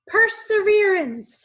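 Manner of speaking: loud, high, slow call. A narrator's reading. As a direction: announce the word proudly. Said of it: "he called out".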